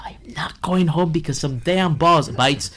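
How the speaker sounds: hushed, annoyed whisper under the breath; muttered to myself. Retold or imitated. Chef on a cooking show muttering at failed bites, in a frustrated whisper. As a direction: whisper it through frustration, fast losing patience. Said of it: "I'm like".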